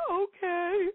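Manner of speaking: high and teary, voice catching; tearful. Real, not acted. Mother reliving her breakdown, teary and high. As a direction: let the tears come through the words. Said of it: "snapped me out of the pity party".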